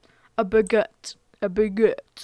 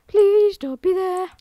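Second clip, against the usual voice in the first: higher, slow desperate plea; raised pitch, drawn-out pleading; 7 semitones higher, slower than usual. Real, not acted. Same plea repeated higher, louder.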